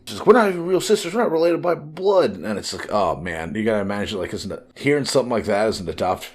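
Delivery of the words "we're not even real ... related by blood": high, louder bratty kid imitation; little brat. Adopted girl rejects sister over hand-me-downs, imitated little brat. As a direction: play a brat lashing out, pitched way up. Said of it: "Nami starts being a little brat".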